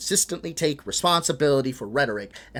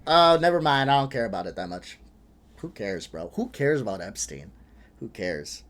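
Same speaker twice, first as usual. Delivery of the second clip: mock shrug; 5 semitones lower than usual. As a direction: brush it off like it never mattered. Mocking Charlie dropping the Epstein topic.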